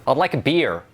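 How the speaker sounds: "I'd like a beer." with beer rhyming with peer; American "I'd like a beer." r sounded. Shown as a demonstration. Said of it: "How do you say beer in American?".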